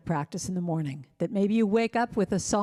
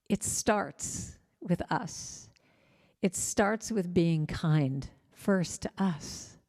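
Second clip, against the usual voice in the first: slow, soft emphasis; 3 dB quieter, much slower than usual. Real, not acted. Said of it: "slow soft emphasis for audience".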